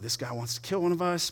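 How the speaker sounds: softly retold murmur, not a true whisper; hushed gossip. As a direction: pass it on under your breath.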